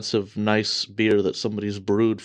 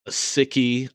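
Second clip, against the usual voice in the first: American accent; 3 semitones higher, slower than usual. Shown as a demonstration. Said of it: "I'm gonna say this in an American accent".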